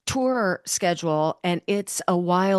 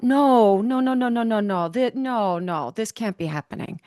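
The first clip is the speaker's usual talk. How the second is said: retold crying out. Host re-enacting her reaction to a memoir, mock anguished cry. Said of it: "Or I would cry out".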